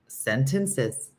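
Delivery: "Sentences" lifted on its last syllable; "Sentences" said like a light question; rising intonation. Shown as a demonstration. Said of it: "I just went up".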